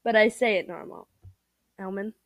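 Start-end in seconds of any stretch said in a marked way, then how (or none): 1.8-2.1 Elman, almond garbled as "el-mun"; deliberately wrong pronunciation. Shown as a demonstration. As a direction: say Elman with an "el" start and no d. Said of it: "No, that wasn't normal".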